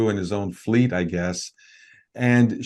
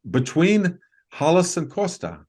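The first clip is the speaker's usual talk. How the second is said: higher-pitched imitation of calling out; retold yell; 8 semitones higher than usual. Friend pointing behind the couple, a mild retold yell. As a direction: call it out at moderate volume. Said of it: "he yells out".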